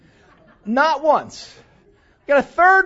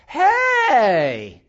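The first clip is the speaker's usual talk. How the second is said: excited relative; 4 semitones higher, 6 dB louder, much slower than usual. Retold or imitated. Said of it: "goes like this".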